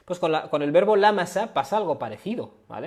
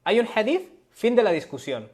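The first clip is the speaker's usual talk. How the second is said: sharp high rise on hadith, mocking; incredulous echo; 6 semitones higher than usual. Shown as a demonstration. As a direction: throw their words back as a doubtful question. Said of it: "mocking echo of the quote". (repetición burlona e incrédula, con subida aguda en hadith)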